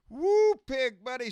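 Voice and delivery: loud, slow, high woo; excited shout. Real, not acted. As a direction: whoop it out to friends. Shout-out to viewers.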